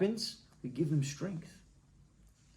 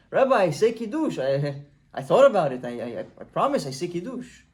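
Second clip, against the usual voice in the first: pleading insistence; 6 dB louder than usual. Acted. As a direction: insist he really says Kiddush. Farmer insists to the rabbi.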